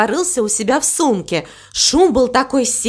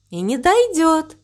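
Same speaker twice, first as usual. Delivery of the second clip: calm, higher-pitched reassurance; 6 semitones higher than usual. A narrator's reading. Cow reassures worried crow about the wave, calmly. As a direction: reassure without any urgency. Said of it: "спокойно сказала корова".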